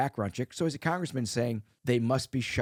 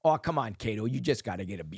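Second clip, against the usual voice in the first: put-on Wisconsin accent. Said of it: "I don't have the Wisconsin. My family, I go back".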